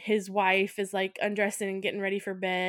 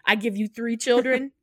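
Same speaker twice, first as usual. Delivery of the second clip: louder, affronted rant; indignant wife; 5 dB louder than usual. Retold or imitated. Wife scolds husband, loud affronted outrage. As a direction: tear into him, offended.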